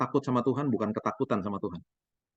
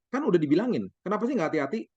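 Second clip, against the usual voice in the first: higher, exasperated scolding of a careless son; mock scolding; 6 semitones higher than usual. Father imagines scolding his son, mock exasperated scold. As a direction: nag him like an annoyed dad. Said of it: "Saya bisa marah-marah".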